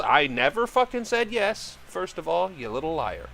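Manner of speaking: high, loud outraged denial, settling down; mock-furious protest of innocence; indignant dad. Dad's indignant retort to kid.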